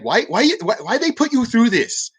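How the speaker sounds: high, mock broken-English pharmacist asking why; imitating broken English. Pharmacist asking the veteran why, in imitated broken English. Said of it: "she spoke really broken English".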